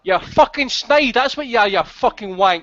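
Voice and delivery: heated, pushy telling-off that speeds up then slows to spit the insults; angry rant. Real, not acted. Host laying into caller Dab Dab on air, angry rant. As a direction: tear into him for being a snitch. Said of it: "Andy, let's calm down a bit".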